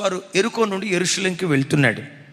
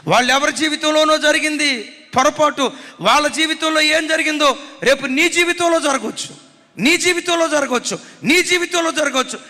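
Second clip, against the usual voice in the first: preaching at full force; 7 semitones higher, 3 dB louder than usual. Acted.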